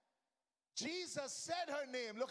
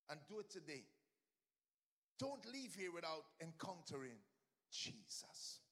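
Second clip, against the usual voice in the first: much softer and lower, earnest urging; hushed plea; 5 semitones lower, 7 dB quieter than usual. Real, not acted. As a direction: lean in and plead softly with the church. Altar-call plea, voice dropped.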